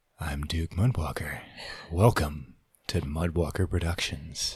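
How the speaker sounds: low, hushed, sultry, seductive voice. Asked by the host to use that voice, introducing himself in a sultry voice. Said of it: "use that sultry voice".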